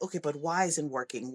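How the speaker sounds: low, soft, composed questioning; instructor. Retold or imitated. Instructor coming back to frustrated kids, calmly questioning. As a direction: ask it evenly, like a patient teacher. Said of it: "she came back and she was like".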